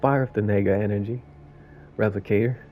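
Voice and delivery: lightly voiced New York raccoon; storytelling in a loosely faked New York accent; badly faked New York accent; sarcastic New York accent. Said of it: "That was my worst New York accent".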